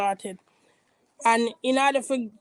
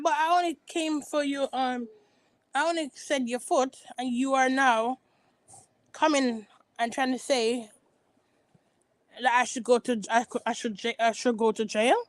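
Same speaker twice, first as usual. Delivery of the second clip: mock Karen protest. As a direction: plead innocence like Karen. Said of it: "Karen was like".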